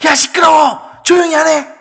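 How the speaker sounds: high, shouted rebuke; acted furious hushing; angry scolding. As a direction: yell at someone to shut up. Acting the crowd scolding the man.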